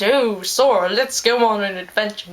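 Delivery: a hint of a chirpy cartoon sidekick; mock the Disney duck lightly. Vlogger mocking Disney sidekicks inviting Sora along, mock cheerful. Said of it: "Stupid talking duck and dog".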